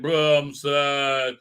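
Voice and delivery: slow, droopy mock sadness; mock dejected. Recapping the episode, mocking Soong's sulk, slow and droopy. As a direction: drag it out like a sulking android. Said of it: "he's all dejected".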